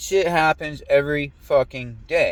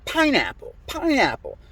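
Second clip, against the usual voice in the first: mock yelling; 12 semitones higher than usual. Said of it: "they're yelling at her".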